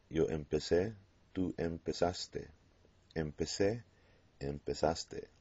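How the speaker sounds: same S in empecé and empezaste, no English Z buzz; Z sounds like S. Shown as a demonstration. Teacher proving they sound the same, S sound in empecé and empezaste. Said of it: "Z sounds like S".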